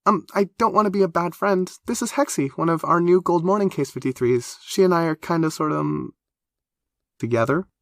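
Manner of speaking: put-on high, quick, chatty young woman; Black Forest greeting Whippersnap, high and eager; eager high girl voice. A narrator's reading. Nervous introduction of Hexie.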